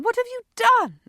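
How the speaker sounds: high, loud, laughing disbelief; can't hold back the laugh. A narrator's reading. Lydia sees her friend's black eye, laughing. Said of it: "not able to hold her laugh".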